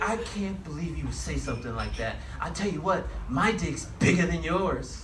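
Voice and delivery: mildly angry heckler, retold; mock indignant comeback, slowing at the end; retold getting mad. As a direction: imitate an offended lady working up to a boast. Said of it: "She started getting mad".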